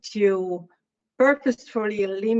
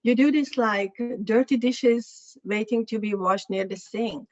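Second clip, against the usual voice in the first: mock dismissive critic; 3 semitones higher than usual. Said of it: "Somebody said".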